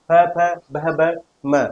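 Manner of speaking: फ, फ, भ, भ, म sounded out one by one with the lips pressed; teacher sounding each lip letter on its own; lip consonant demo. Shown as a demonstration. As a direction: pop फ and भ through the lips, then hum म. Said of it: "होठों के द्वारा बोले जाने वाले वर्ण".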